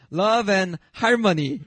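a laughing, slowed playful line; laughing childhood quote. Retold or imitated. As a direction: say it through a laugh, like a kid. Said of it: "when I was a kid, I used to say".

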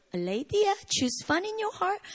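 gentle coaxing mother. Retold or imitated. Mother voiced coaching small daughter.

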